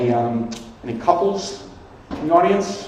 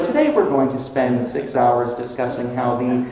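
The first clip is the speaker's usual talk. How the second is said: boring public radio voice; 2 semitones higher, 4 dB quieter than usual. Retold or imitated. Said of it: "most boring shit you've ever heard".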